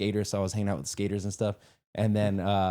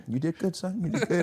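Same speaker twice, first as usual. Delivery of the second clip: dad voice; 8 semitones higher than usual. Retold or imitated. Voicing the dad's praise.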